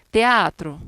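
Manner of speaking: "Teatro" split as te-A-tro; loud, teacherly "Teatro" with e and a in two syllables; vowels in hiatus. Shown as a demonstration. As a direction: separate the e and a of "Teatro". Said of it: "separo as vocales".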